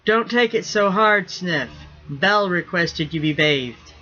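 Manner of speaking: teasing call to the bathed rigger. Acted. Captain calling down to the sulking rigger, teasing.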